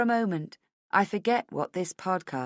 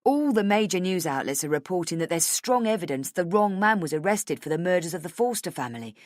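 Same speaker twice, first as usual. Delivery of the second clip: usual speaking voice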